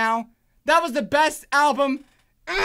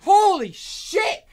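higher, slow, drawn-out swearing; awed exclamation; 6 semitones higher, 3 dB louder, much slower than usual. Real, not acted. Fan floored by the album, awed exclamation. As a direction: stretch both words out in amazement.

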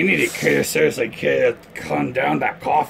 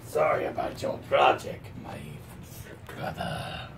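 hushed whisper; 12 semitones lower, 11 dB quieter than usual. Acted. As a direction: whisper it to your brother. Villain sibling consoling quietly.

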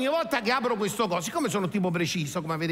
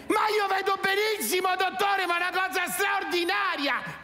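ecstatic amazement; 11 semitones higher than usual. Acted. Sudden clear vision with glasses.

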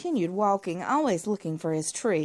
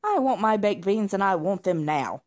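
put-on loud spoilt-child shout; shouted demand; 4 dB louder than usual. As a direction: yell it like a brat wanting dinner. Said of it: "he shouted".

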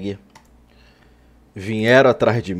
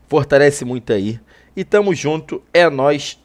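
hiccuping through the words; with hiccups; 2 semitones higher, 4 dB louder than usual. Real, not acted. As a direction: talk between hiccups. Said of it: "tô com soluço aí".

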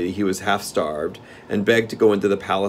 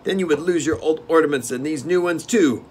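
steward; 9 semitones higher, 4 dB louder than usual. Acted. Steward warns.

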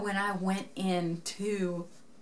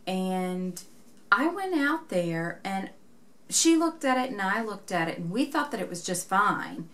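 a flustered shop volunteer breaking bad news; alarmed volunteer; 4 dB louder than usual. Shop volunteer breaking the news, startled and flustered.

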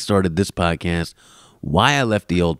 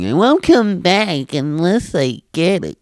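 high, slow whiny demand; whiny commenter mock; 9 semitones higher, slower than usual. Podcaster mocking viewers who want a camera whiny. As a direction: mimic the entitled viewer.

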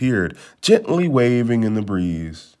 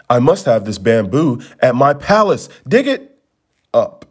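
insisting. Acted. Prince insists his companions take the bamboo, firm. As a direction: insist they dig it up. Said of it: "he insisted".

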